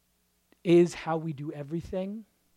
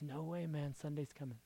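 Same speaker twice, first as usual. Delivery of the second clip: quiet promise; hushed Sunday's coming; 12 dB quieter than usual. Acted. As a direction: murmur it close. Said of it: "he says".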